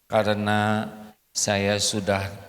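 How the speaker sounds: lightly voiced stiff recorded confession; husband's video apology. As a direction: recite it like a contrite husband on camera. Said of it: "bikin video rekaman".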